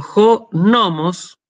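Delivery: "jonomos" stressed on NO, jo-NO-mos; stress on first omicron. Shown as a demonstration. Teacher contrasting law with meadow, "jonomos" stressed jo-NO-mos. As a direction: punch the NO in "jonomos". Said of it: "con el acento en la primera omicron".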